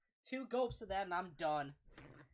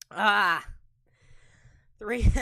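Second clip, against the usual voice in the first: mouth burning; 15 dB louder than usual. Real, not acted. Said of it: "I can't even talk. My mouth is on fire".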